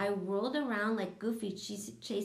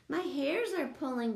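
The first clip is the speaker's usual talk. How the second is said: yelled; 6 semitones higher than usual. A narrator's reading. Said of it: "Gus yelled".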